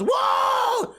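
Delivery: very high excited whoa; imitated high-pitched cheer; jackpot winner's whoop. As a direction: whoop like a stranger hitting the jackpot. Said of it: "hits a jackpot beside me and goes".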